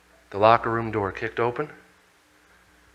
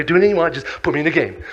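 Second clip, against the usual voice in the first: slightly raised, keen agreement; eager plea; 3 semitones higher, 3 dB louder, much faster than usual. Acted. Player agreeing to anything to get in, eager. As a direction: brush off any worry eagerly. First, milder plea to play.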